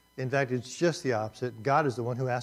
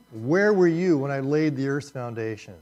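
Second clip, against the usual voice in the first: booming read; 7 dB louder than usual. Shown as a demonstration. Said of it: "such a powerful statement".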